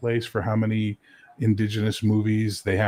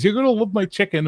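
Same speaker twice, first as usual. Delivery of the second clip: Colonel voice; 12 semitones higher, 4 dB louder than usual. Retold or imitated. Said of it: "Colonel quote from movie".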